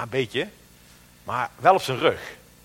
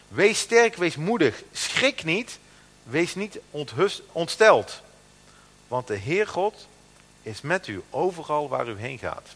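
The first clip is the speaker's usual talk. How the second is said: emphatic, slow scripture reading; 3 semitones higher, slower than usual. Acted. Preacher declaiming God's charge to Joshua, emphatic and slow. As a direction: proclaim each command with weight.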